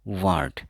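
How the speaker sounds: वर्ड said "waad", no r; वर्ड with the r silent, falling; silent r demo. Shown as a demonstration. Teacher showing students वर्ड with silent r. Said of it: "तो आर silent रहेगा".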